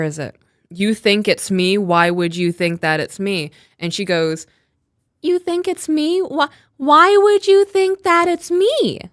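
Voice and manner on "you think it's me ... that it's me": much higher, slower, shocked rising pitch; high incredulous imitation. Retelling Gypsy's interrogation, imitating her in a high, shocked voice. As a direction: mimic her high, disbelieving inflection. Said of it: "That's exactly how she says it, like, influx up".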